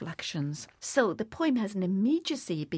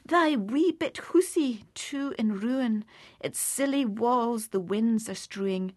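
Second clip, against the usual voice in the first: Scots poem recitation; 2 semitones higher, 3 dB louder than usual. Acted. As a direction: linger over the ruined little nest.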